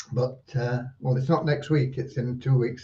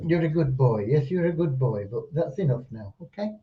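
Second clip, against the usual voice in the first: talking to a dog. Real, not acted. Dog returns, gently sent off.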